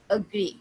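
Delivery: agree, first vowel short and relaxed; quick schwa. Shown as a demonstration. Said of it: "बहुत ही quick".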